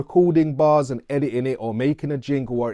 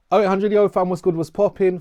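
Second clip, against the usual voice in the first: hyped intro; 5 semitones higher, 3 dB louder, faster than usual. Shown as a demonstration. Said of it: "For the fifth, sixth, seventh".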